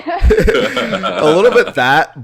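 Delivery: words squeezed out through a laugh. Real, not acted. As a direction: laugh while you say it. Laughing reply about Keanu's acting.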